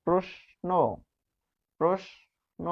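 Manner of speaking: প্রশ্ন said twice, gently, with a dental s sound; repeated demo word. Shown as a demonstration. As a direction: model প্রশ্ন clearly for the class. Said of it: "প্রশ্ন, তখন এই তালব্য স".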